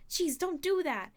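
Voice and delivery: high, loud, drawn-out complaint; startled protest. A narrator's reading. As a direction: exclaim as if just startled. Startled Percy scolds Annabeth.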